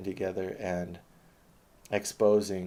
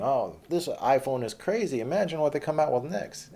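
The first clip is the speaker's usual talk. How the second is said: hammed-up starstruck fanboy, much higher and louder; mock Joe Rogan; 7 semitones higher, 5 dB louder than usual. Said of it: "And Joe Rogan asking".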